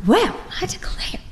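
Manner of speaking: a secret, hushed well I declare; breathy whisper. Shown as a demonstration. Speaker whispers the title as an alternate reading. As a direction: whisper it, drawn out and high. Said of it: "and like".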